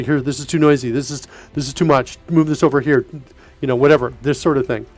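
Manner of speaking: chewing ice while talking; ice in mouth. Real, not acted. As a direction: talk round a mouthful of ice. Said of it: "I know I'm chewing in your ear".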